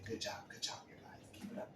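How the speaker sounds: hushed, half-whispered praise; soft, throwaway cheering-on; mock encouragement. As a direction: murmur praise under your breath. Imagined encouragement while dapping people up.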